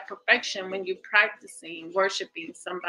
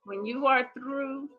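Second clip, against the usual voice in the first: deliberate read-aloud. Acted. Facilitator reading the exercise to the group, deliberate read-aloud. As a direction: read the instructions out with careful pacing.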